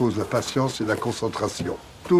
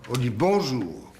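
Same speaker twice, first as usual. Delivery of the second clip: bonjour said slower, open and warm; frank, warm bonjour; slower than usual. Shown as a demonstration. Director shows the trainee a warm frank bonjour. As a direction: greet like the day has started happily. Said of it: "avec une voix franche et chaleureuse".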